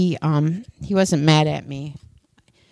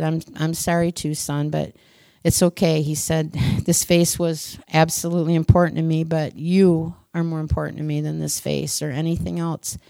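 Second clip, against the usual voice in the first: tender father; 2 semitones lower, 3 dB quieter than usual. Acted. Tender father comforts crying son.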